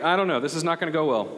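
quick retold doubtful thought; skeptical. Youth minister judging student on appearance, skeptical. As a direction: rattle off mild misgivings. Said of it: "I'm skeptical".

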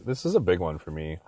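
burp breaking the words. Real, not acted. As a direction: let a burp slip through the line. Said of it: "that was a weird burp".

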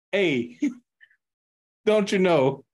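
mild, polite Canadian imitation; mock Canadian accent. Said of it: "I know Canada's known to be, like, some nice people".

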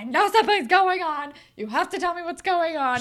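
hammed-up pushy girlfriend; mock insistent demand. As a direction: demand answers like on a warpath. Claire on a warpath.

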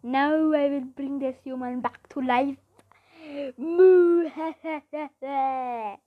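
loud, theatrical mad-scientist proclamation; crazy scientist. Acted. Boy presenting his creature to judges, crazy scientist voice. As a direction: proclaim it, then cackle slowly. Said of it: "in my crazy scientist voice".

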